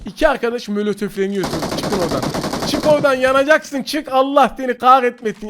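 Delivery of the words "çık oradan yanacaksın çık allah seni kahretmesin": loud, higher jeering at burning foes; taunting shout. Real, not acted. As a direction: yell at them to get out. Yelling at enemies in fire. (alaycı bağırış)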